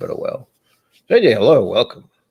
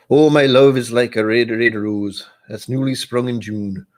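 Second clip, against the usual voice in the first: a drifting Scottish-Irish accent, hammed up and slowish; bad Scottish-Irish accent; 3 semitones higher, 4 dB louder than usual. Streamer reciting Burns poem to his viewers in a bad Scottish-Irish accent. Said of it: "in a bad accent".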